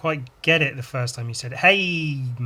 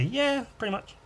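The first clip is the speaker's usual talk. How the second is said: mock sheepish reply; 11 semitones higher than usual. Acted answer, much higher pitch.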